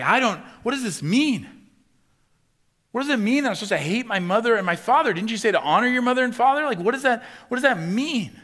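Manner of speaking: high, loud pleading puzzlement; mock bewildered question. Reader stuck on a hard passage, loud and bewildered. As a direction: play the confused reader, all questions.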